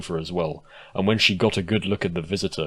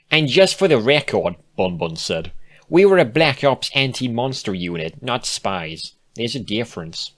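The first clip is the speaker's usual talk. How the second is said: high, louder, prim correction; Bon Bon, indignant; 4 semitones higher, 3 dB louder than usual. Acted. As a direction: set the record straight, high and proud. Bon Bon figure.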